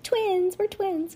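high-pitched exclamation of twinship; excited girl character. Acted. Girl claiming to be her friend's twin, high-voiced. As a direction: chirp it in a very high voice. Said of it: "Remember, she's like".

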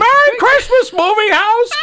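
joyful shout. Retold or imitated. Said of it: "passes the movie theater and goes".

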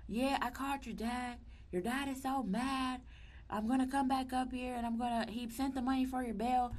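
high put-on mom voice; quoting mom on the phone about bail; imitating mom. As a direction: play her mother, a bit frantic. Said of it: "she was like".

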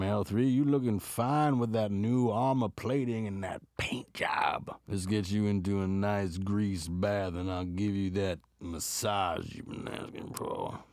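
whispered flirt to a robot; seductive whisper. Retold or imitated. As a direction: seduce the droid in a hushed voice. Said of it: "He's like".

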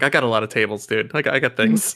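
lightly voiced overworked waitress; a hint of tired server; exhausted waitress. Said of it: "I was like an exhausted waitress".

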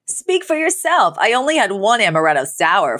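tipsy slurred reply; slurring. Acted. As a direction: slur it a little, tipsy. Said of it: "Fran slurred in a reply".

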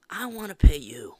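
loud high mock offer; shouting an over-the-top offer; mock excited school voice. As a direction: ham up the eager recruiter.

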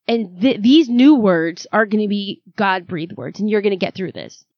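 father comforting his daughter; reassuring dad. Retold or imitated. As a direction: bless her with calm conviction. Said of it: "he's just like".

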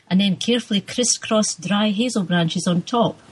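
steady, unhurried reading of a novel in a Scots lilt, character lines lightly voiced; story reading. A narrator's reading. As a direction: read the opening chapter to the listeners. Reads her novel aloud.

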